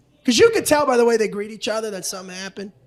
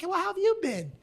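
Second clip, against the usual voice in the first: mock flirty reply; 8 semitones higher, 7 dB quieter than usual. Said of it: "She's like".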